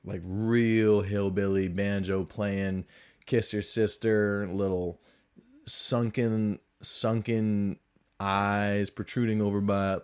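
slow, drawn-out Southern hillbilly twang; Southern hillbilly accent. Shown as a demonstration. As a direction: lay on a slow honky-tonk Southern accent. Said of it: "I start talking real honky tonk".

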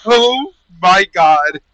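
slow, high, drawn-out horror; horrified. Real, not acted. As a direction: stretch it out in disgust. Disgusted reaction to gross idea.

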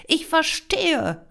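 slow, loud, high exclamation; drawn-out, outraged realisation; indignant cry. A narrator's reading. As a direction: call it out in indignation. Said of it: "rief sie".

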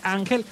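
Ángel said an-HEL, final syllable stressed; stress on last syllable. Shown as a demonstration. Host shows the unaccented name, Ángel stressed at the end. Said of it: "Si no lleva acento".

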